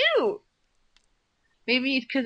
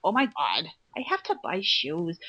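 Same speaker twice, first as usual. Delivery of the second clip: imitating a whiny girl; 4 semitones lower than usual. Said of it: "she used to sound like".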